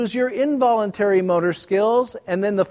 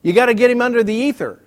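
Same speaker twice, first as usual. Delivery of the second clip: car boss line; 4 semitones higher, 4 dB louder, faster than usual. Retold or imitated. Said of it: "Have you ever heard that phrase?".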